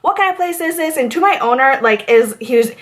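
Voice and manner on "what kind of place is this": imitating a rude customer's indignant, higher question; mock angry demand. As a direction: play the annoyed guest starting to complain. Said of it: "He goes off".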